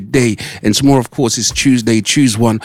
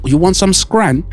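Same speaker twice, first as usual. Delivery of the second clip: mock Scouse; 6 semitones higher, slower than usual. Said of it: "I know nothing about that word".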